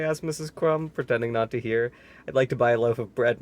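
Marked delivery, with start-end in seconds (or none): 2.3-3.4 shouting. Acted. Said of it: "Mister Noisy shouted".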